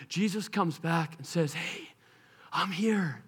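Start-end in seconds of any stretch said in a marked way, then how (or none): 1.5-3.2 gentle. Acted. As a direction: speak tenderly to the ones who hurt him. Risen Jesus addresses his tormentors.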